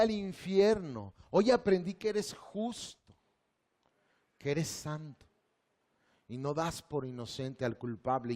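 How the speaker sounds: slow, earnest prayer voice; guided prayer. Acted. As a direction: lead them through repentance, slowly. Leads a sinner's prayer. (oración guiada, lenta y sincera)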